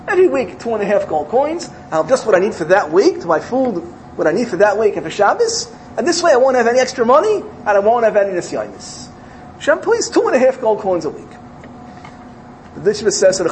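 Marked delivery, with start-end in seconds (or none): 0.1-11.3 high and loud, begging Hashem; fervent pleading. Acted. The chassid begs Hashem for a weekly sum, high fervent pleading. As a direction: plead it, voice climbing on please.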